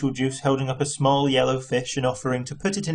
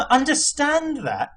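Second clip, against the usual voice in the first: high, slow, incredulous shout; 14 semitones higher, slower than usual. A narrator's reading. Arthur shouting back at Ford in disbelief, high and slow. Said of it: "shouted Arthur".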